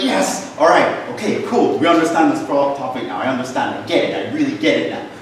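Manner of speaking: mock-cheerful student claiming he gets it; imitating student. Teacher voicing a student who thinks he's got it, mock cheerful. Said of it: "He's like".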